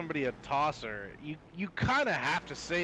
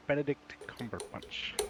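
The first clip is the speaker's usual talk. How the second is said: savoured name; 4 dB quieter than usual. Shown as a demonstration. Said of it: "What a wonderful name that is".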